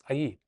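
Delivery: "ahí" without any sh sound; "ahí" with a smooth y-glide, standard style; standard Spanish pronunciation. Shown as a demonstration. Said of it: "I'll pronounce it with standard Spanish accent".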